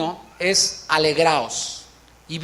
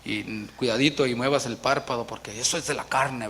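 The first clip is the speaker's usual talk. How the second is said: lower, softer, prim scolding voice; mock solemn critic; 6 semitones lower, 5 dB quieter than usual. Preacher parodying strict believers with a lower, softer prim voice. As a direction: parody a stiff churchgoer who frowns on joy. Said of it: "algunos han caído de decir".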